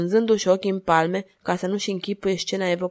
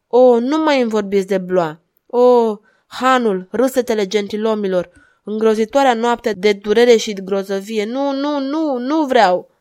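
anguished pleading; 3 semitones higher, 6 dB louder than usual. Acted. Madwoman begging the duchess to stop the memories, anguished. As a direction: beg not to be made to remember.

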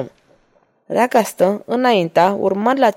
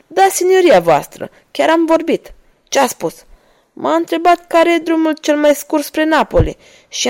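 a hint of an eager, humble peasant, pitched higher; lightly raised, eager peasant voice; lightly voiced peasant; 4 semitones higher than usual. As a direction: play the innocent villager misleading the soldiers.

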